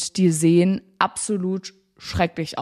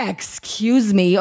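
drawn-out, slow mock outrage; retold indignant double take; indignant disbelief; much slower than usual. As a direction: stretch it out as an affronted reply. Retold shock at the price.

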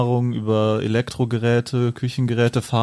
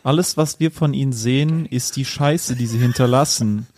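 poem recital. Acted. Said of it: "das Abschlussgedicht, äh, vortragen".

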